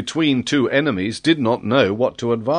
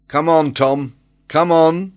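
mildly raised, cheering call; joyous cry; 5 semitones higher, 5 dB louder than usual. A narrator's reading. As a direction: urge a friend on with joy. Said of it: "cried John Mangles in a joyous voice".

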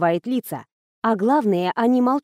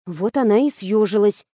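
ordinary delivery, nothing marked

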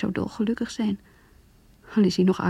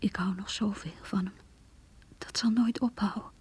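whispered. Acted. Rachel whispering about her mother's comfort. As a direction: hush it like a secret.

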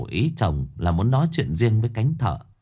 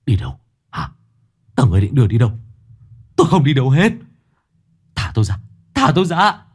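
high, loud frantic refusal; panicked protest; 4 semitones higher, 4 dB louder, faster than usual. Acted. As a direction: fight them off in panic. Sinh resists being taken. (hoảng loạn chống cự)

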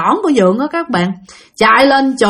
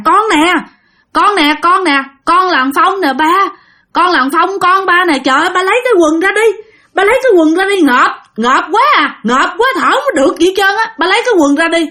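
dead son pleading; 7 semitones higher than usual. Acted. Dead son speaking through his mother, begging his father, breathless. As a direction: beg father to lift the cloth, gasping.

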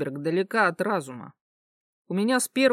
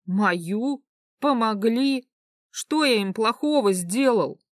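incredulous; 4 semitones higher, slower than usual. Acted. Protagonist indignant.

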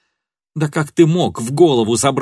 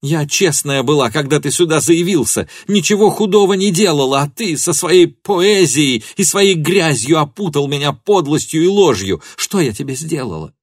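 high, raised, impassioned accusation; furious tirade; 7 semitones higher, 4 dB louder than usual. A narrator's reading. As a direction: pour out hatred and hurt at him. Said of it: "закричала она".

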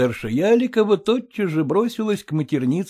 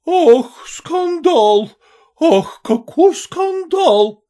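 high, louder, slow wail; 13 semitones higher, 6 dB louder, much slower than usual. A narrator's reading. Mother wails over the fall, high and loud. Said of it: "вопияла штаб-офицерша".

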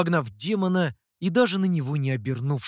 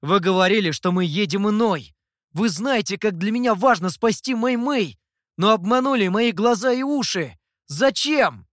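higher, louder angry accusation; flaring anger; 5 semitones higher, 5 dB louder than usual. Acted. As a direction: confront the master who lied. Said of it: "в груди Сяоту вспыхнул гнев". (с вспыхнувшим гневом)

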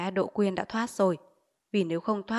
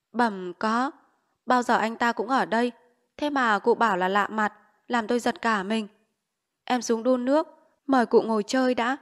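said loud on purpose; 3 semitones higher, 3 dB louder than usual. Acted. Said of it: "Bà cụ có ý nói câu này to lên".

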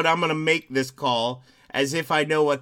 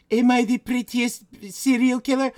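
mock vain killer; 6 semitones higher, 5 dB louder than usual. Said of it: "carried on conversations".

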